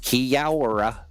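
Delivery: second try at Kia ora. Retold or imitated. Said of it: "I'm the worst".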